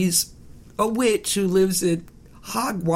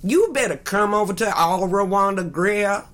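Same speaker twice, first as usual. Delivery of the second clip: blues singer voice; 2 semitones higher than usual. Pretend. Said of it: "She sounds like I'm doing a Dirty Blues band".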